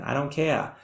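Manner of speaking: mild put-on Boston accent. Shown as a demonstration. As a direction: imitate a Bostonian teen lightly. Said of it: "imagine that in a Boston accent".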